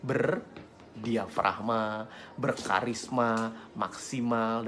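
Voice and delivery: slow, diaphragm-supported delivery; full, measured, drawn-out words; round, energized voice. Shown as a demonstration. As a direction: pump out each word slowly from the diaphragm. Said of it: "memompa suara kita agar lebih bulat".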